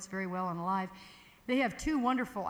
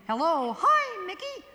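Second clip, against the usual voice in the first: chest to falsetto; 10 semitones higher, 7 dB louder, slower than usual. Shown as a demonstration. Teacher showing the yodel flip from chest to falsetto. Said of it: "So yodeling is really".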